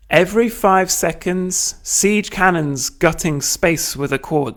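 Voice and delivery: dramatic poem reading. Acted. Lecturer reading Marinetti's battle poem aloud to students, declaimed. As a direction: read the war poem with relish, stretching zang tum tum.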